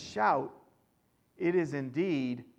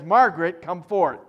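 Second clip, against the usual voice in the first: calling out; 7 dB louder than usual. Pretend. Jesus calling the dead out.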